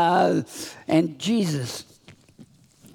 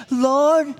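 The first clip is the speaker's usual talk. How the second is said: questioning Peter; 6 semitones higher, 5 dB louder than usual. Acted. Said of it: "Peter came to Jesus and he asked".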